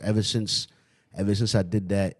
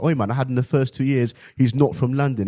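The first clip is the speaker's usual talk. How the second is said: put-on London accent; 4 semitones higher, 3 dB louder than usual. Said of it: "I had my teachers arguing".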